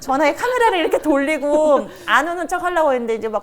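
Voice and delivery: telling it through real laughter; laughing while telling. Real, not acted. Mother laughing to counselor about hiding her tears. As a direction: laugh at your own embarrassment as you tell it.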